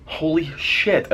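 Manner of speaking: retold shock. Passenger hearing the engines scream, slow retold shock. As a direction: draw it out in acted disbelief. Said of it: "And I'm like".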